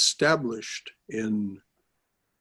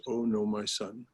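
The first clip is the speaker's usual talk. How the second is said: tender; 4 semitones lower, 6 dB quieter than usual. Acted. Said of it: "addresses him in that way".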